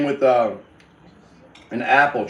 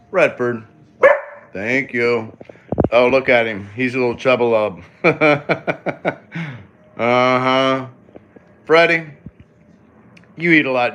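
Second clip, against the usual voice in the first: doggy talk; 4 dB louder than usual. Real, not acted. Talking to the dog.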